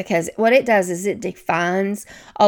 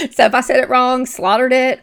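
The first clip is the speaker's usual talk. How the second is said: laughing; 4 semitones higher, 5 dB louder than usual. Real, not acted. Apologizing for mangled names.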